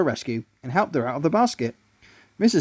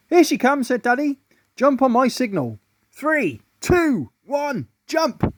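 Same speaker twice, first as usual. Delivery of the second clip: whisper-shout the signal to the gang; scheming bug; 9 semitones higher, slower than usual. A narrator's reading. Daddy bug giving signal.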